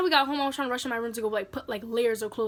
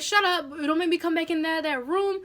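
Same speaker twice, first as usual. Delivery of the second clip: imitated cross mom, pitched up; mock scolding; 3 semitones higher than usual. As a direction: warn the crying kid, lightly acted. Mother snapping at crying child.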